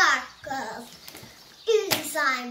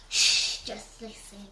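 right in your ear; 5 semitones lower than usual. Real, not acted. Hushing to hear slime sounds.

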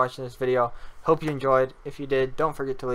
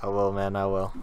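lightly voiced hood guy, lower pitch; 5 semitones lower than usual. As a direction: drop the pitch for a street-dude reply. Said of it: "hood guy".

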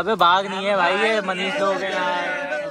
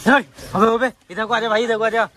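raised, higher call to someone away; 3 semitones higher, 5 dB louder than usual. Real, not acted. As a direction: call them over loudly. Calling the others over. (दूर से आवाज़ लगाते हुए)

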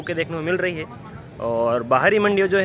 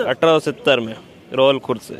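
loud price call over the crowd; rapid market auction calling; 3 semitones lower, 3 dB louder than usual. Real, not acted. Calling prices in noisy mandi.

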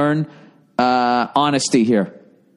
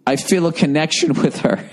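laughing through a quote; 2 semitones higher than usual. Retold or imitated. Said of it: "something along the lines of".

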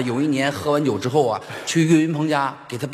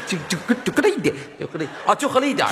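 talking through giggles, fast; can't stop laughing while explaining; 3 semitones higher, much faster than usual. Real, not acted.

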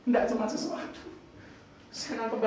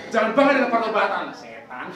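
mock spiteful; 6 dB louder than usual. Shown as a demonstration. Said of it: "Ngomongnya nggak boleh ... dengki gitu loh".

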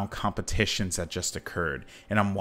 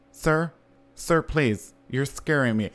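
higher, pleading and a little scared; mock scared interviewer; 4 semitones higher than usual. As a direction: beg him to snap out of it. Interviewer frightened by the groan.

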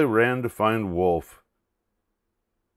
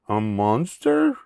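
mildly fearful question; a touch of a whimper; whimpering Duck. Acted. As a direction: ask it timidly, rising at the end. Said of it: "she whimpered".

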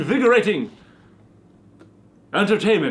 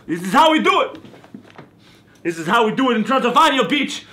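gloating shout; 4 semitones higher, faster than usual. Acted. Vampire gloating while carving.

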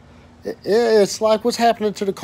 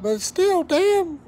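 exasperated retort; 11 semitones higher, 4 dB quieter, much slower than usual. Retold or imitated. Telling coworkers families suffer.

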